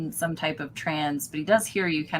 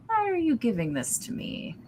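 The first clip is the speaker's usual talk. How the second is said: Barden voice; 7 semitones higher than usual. Acted.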